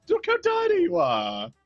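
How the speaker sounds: a villain barber mocking his tiny client, shouting; gloating shout. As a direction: Look how tiny you are, shouted out high. Repeats line, second shouted.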